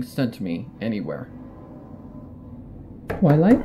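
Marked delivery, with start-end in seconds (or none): 3.1-3.6 lightly voiced Rarity calling through the door, higher; a hint of Rarity, higher and louder; Rarity's voice. A narrator's reading. Narrator voicing Rarity calling through the door, lightly higher. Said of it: "says the voice".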